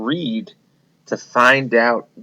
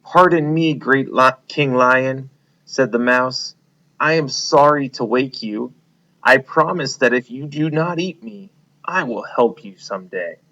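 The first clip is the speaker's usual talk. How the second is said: lightly voiced mouse asking for mercy; mouse pleading; 3 semitones higher, 4 dB louder than usual. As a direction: plead timidly with the king. Frightened mouse pleads with lion.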